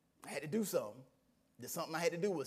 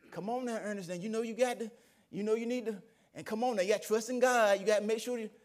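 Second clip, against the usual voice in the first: higher-pitched coaxing, lightly voiced wife; urging wife; 3 semitones higher than usual. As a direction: urge him on like a pleading spouse. Voicing wife urging him to trust.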